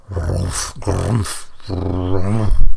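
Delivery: growls building to a loud last one; bear grunts. A narrator's reading.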